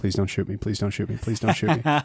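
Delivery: hushed, pleading mutter under the breath. Playing a character as a gunman levels the gun: muttering under breath. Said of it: "I am just under my breath going".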